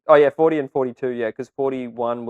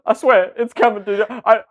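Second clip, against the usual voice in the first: chipmunk-high squeaky voice; pitched way up like a cartoon; high filtered voice; 8 semitones higher, 6 dB louder than usual.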